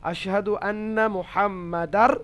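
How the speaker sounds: careful slow Arabic recitation. Shown as a demonstration. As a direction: recite আশহাদু আন্না মুহাম্মাদার slowly with held vowels. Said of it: "তাহলে".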